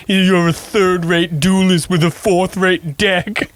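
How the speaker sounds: slow, sneering anime villain; mock rival sneer. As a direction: drawl the insult like a rival. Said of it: "It was a very".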